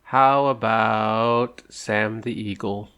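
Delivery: very slow, stretched-out words; drawn-out guess. Real, not acted. Player offering a guess at the mystery animal, drawn out. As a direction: draw each word out slowly.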